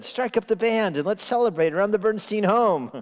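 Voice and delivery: high, jubilant proclamation; mock celebration. Composer quoting the dad who never said it, mock-jubilant. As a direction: cry it out like a big festive announcement. Dad's imagined cheer for music.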